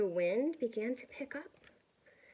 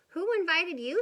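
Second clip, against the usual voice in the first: loud, higher grumpy challenge; 8 semitones higher, 9 dB louder than usual. Acted. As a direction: rude snap at the visitor. Grumpy cactus to lizard.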